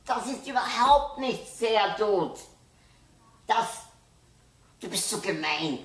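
loud, high angry shout; furious yelling. A narrator's reading. Boy yells at his sister for failing him, furious. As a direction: yell it at her in a rage. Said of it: "brüllt Andi".

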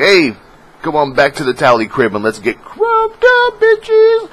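high, loud hyped invitation; party hype. Retold or imitated. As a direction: holler it like a party host. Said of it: "I'll be like".

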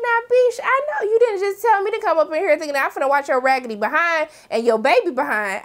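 high-pitched mock outrage; sassy, affronted comeback; indignant. Acting out a comeback to Serena's baby request, indignant.

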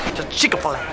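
numb lip, drooling slightly; numb from the dentist. Real, not acted. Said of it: "my lip is still numb".

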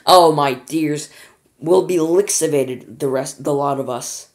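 loud, slow wail; wailing in fear. A narrator's reading. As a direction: wail in despair. Grandma wails.

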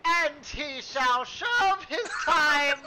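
stern judge. Acted. Mock judge sentencing a prisoner.

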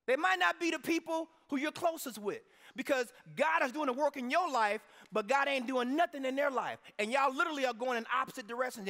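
loud, high preaching build; preacher raising the roof; fired-up preaching. Real, not acted. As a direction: preach it hard to the congregation. Preaching at full force.

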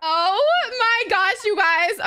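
high, loud, slow drawn-out gasp; excited squeal. Real, not acted. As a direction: stretch it out in delight. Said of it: "I'm a very loud bitch".

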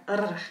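"r" as a rippling trill; rolled, rippling "r"; vibrating R. Shown as a demonstration. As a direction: let "r" vibrate on the tongue. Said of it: "It has that vibration going through it".

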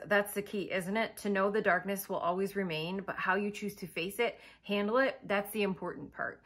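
measured story narration; understated audiobook-style narration; book reading. Acted. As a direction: read the passage aloud with quiet gravity. Reads a quote from book.

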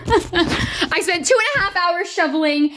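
laughing and crying at once; half sob, half laugh, voice high; real tearful laugh. Real, not acted. Cries over ruined shoveling work.

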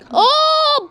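sharp high "Aa!"; sudden startled cry; surprised gasp. Real, not acted. Sudden crash seen. (şaşkın bir "Aa!")

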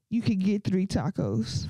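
slow, deadpan imitation of the guy; lightly voiced guy, slow and laughing; mock stingy date. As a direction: lay out the offer slowly, like a favour. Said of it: "He said".

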